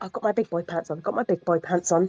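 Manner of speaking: very quiet, low, hushed murmur, barely a breath. In a tabletop game, a player voices their character's line, very quiet. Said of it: "Rhonda's very quietly going to go".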